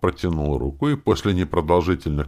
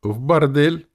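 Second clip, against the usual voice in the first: high, loud mocking jab; 12 semitones higher, 7 dB louder, slower than usual. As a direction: tease him with it. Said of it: "уточнили насмешливо". (насмешливо, громче и выше)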